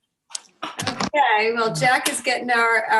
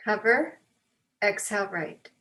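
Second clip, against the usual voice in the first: guided breathing. Real, not acted. Leads breathing exercise.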